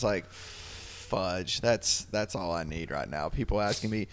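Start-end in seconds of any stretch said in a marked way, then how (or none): 0.3-3.3 low muttered grumble, barely voiced; muttered under breath. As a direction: grumble it quietly to yourself. Grumbling aside at wife's remark.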